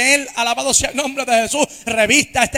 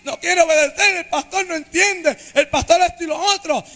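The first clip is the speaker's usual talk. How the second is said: imitating his complaining prayer; 5 semitones higher than usual. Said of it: "lloraba y decía".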